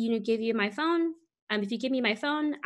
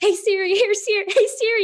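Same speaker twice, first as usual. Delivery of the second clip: full-throated, very loud, shrill yelling; 11 semitones higher, 10 dB louder than usual. Retelling searching behind the seat for a lost phone, retelling yelling. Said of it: "i'm like yelling".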